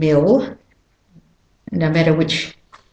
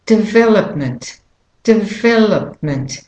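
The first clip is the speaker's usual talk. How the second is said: development with a punched VEL; stress on VEL; 3 semitones higher than usual. Shown as a demonstration. Teacher modelling the next word, stress on VEL in development. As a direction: hit the second syllable of development. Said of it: "the main stressed syllable is the vowel syllable".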